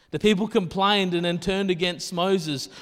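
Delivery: projected scripture read. Acted. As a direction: read the passage out to the congregation.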